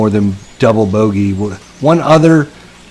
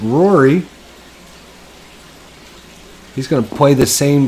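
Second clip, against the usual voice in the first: golf commentator. Acted. Mock golf broadcast continues.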